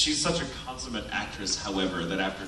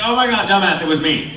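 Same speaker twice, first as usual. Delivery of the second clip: mocking reveal; 8 semitones higher, 12 dB louder than usual. Friend mocking him.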